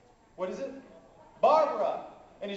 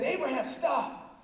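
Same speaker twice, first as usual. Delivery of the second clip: urgent command; 6 semitones higher, much slower than usual. Acted. Angel urgently halting the sacrifice.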